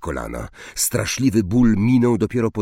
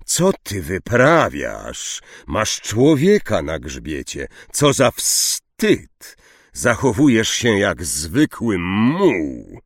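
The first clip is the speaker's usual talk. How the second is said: angry rebuke; slower than usual. Acted. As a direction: scold him slowly, with contempt. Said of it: "zagrzmiał Zakała". (Zakała gniewnie beszta Firenza, wolno i głośno)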